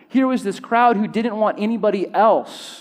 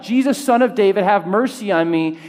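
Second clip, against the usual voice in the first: acted shout; 3 semitones higher than usual. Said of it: "A blind beggar shouts out".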